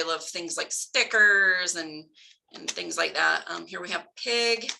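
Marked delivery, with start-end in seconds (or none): none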